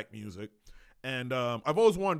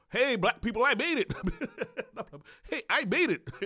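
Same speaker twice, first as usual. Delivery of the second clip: shrill, very high-pitched woman's voice; 10 semitones higher than usual. Describing how an expensive model talked, in that white woman voice. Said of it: "She had like that white woman voice of".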